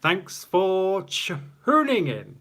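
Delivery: high, slow, stretched-out sign-off; showy, lingering farewell to the audience; drawn-out sign-off. Real, not acted. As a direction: draw out every word, rising high on "tuning". Signature sign-off of the stream.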